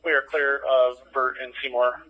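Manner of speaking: terse radio update. Real, not acted. Unit reporting clear.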